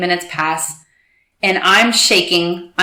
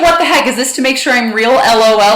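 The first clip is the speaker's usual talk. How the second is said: quoting her friend; 4 semitones higher, 4 dB louder than usual. Retold or imitated. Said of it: "she's like".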